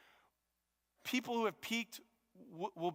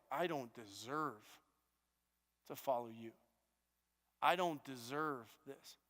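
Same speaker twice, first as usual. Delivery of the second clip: humble hush; 5 semitones lower, 5 dB quieter than usual. Retold or imitated. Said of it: "It was an attitude".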